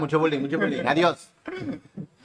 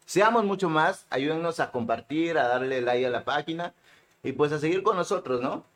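mouth full. Real, not acted. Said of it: "El hablante habló con la boca llena".

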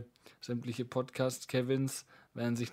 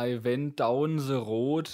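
put-on German accent; 2 semitones higher, 6 dB louder, slower than usual. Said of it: "mit deutschem akzentischem Englisch".

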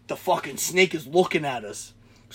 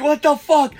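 retold panic; 9 semitones higher, 6 dB louder than usual. Retells panic at the bite.

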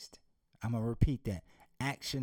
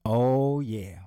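excited shout; 3 semitones lower, 7 dB louder than usual. Real, not acted. Loud exclamation.

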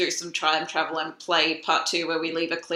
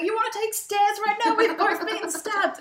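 incredulous; 3 dB louder than usual. Retold or imitated. Essie incredulous.

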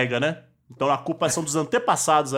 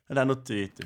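ordinary talk

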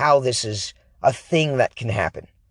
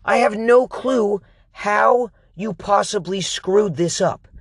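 angry; 8 semitones higher than usual. Retold or imitated. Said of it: "I'm like".

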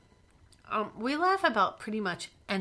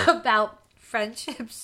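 breaking into laughter mid-sentence; giggling through the words; laughing; 5 dB louder, slower than usual. Real, not acted. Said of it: "Sorry, now I'm laughing".

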